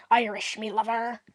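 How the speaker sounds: light mock Irish accent; half-hearted put-on Irish; Irish impersonation. Shown as a demonstration. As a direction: demonstrate an old Irish impression. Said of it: "impersonations of an Irish person".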